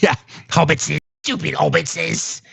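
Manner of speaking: slow, hissing hobbitses; Gollum voice. Retold or imitated. Streamer riffing on the senator as a sneering Gollum. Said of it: "That's what it sounds like".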